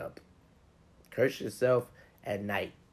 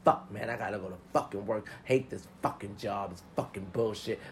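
grumpy morning rant. Retold or imitated. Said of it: "If you wake up and say".

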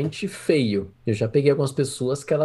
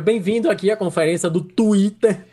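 higher-pitched mock conference welcome, Twitter forced into Portuguese; hammed-up Brazilian-accented announcer; forced Brazilian pronunciation; 4 semitones higher than usual. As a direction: play a host overdoing the Brazilian "tuíter". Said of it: "não fala tão forçado".

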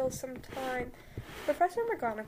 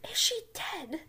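put-on higher, louder shrieking girl; Hermione voice; 4 semitones higher, 5 dB louder than usual. Hermione panics over McGonagall, higher louder shriek. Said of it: "no, sorry, wait".

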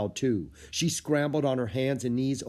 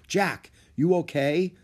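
put-on girl voice; 7 semitones higher, 5 dB louder than usual. A narrator's reading. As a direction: voice Annie as an eager girl. Annie worried for Jack.

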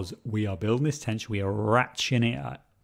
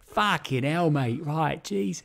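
higher-pitched London accent on the swearing; key-word London accent; 6 semitones higher, slower than usual. Shown as a demonstration. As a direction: slip back into the London accent through the swearword. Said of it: "You need the keywords".

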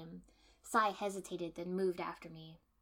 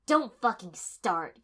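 darkly; 13 dB louder, slower than usual. A narrator's reading. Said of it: "Kiba said darkly".

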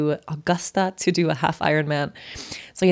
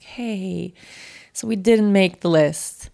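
subdued bad news; much slower than usual. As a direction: break the news gently and slowly. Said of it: "I hear the voice like".

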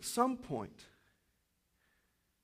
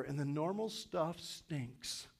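slow emphasis; 6 dB quieter, slower than usual. Shown as a demonstration. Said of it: "Let me say that again".

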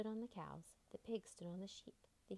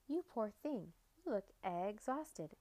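clucking hen; slower than usual. Acted. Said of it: "clucked the hens".

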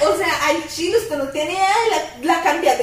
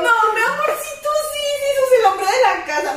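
put-on higher, sugary voice humoring a child; patronizing mom; 8 semitones higher than usual. Friend humors the boy who says he's man of the house, sugary and higher. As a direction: pat the kid on the head with your voice. Mocking sweet mom to kid.

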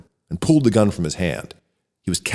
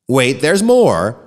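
announcing; 4 semitones higher, 5 dB louder, much slower than usual. Acted. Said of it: "an engineer announced".

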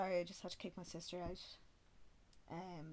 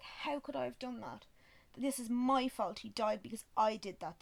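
distraught wail; 4 semitones higher, 6 dB louder than usual. Retold or imitated. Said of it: "And I bawled".

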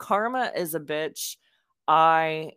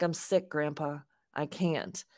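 softer, subdued retold reply; soft protest; 6 dB quieter than usual. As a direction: quietly plead sickness to grandpa, not yet frustrated. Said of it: "And finally, I, I get frustrated".

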